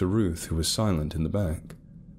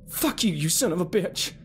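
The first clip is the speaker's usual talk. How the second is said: angry snap; 13 semitones higher than usual. A narrator's reading. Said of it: "Carol snapped".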